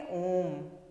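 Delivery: "ओम" held long across three counts; long sounded ओम; drawn-out om. Shown as a demonstration. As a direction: stretch the ओम out slowly. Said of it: "तो इसको हम ऐसे उच्चारण करते हैं".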